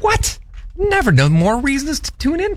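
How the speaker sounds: put-on very high, wavering old man; indignant old-timer squeak. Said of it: "from your old man impression".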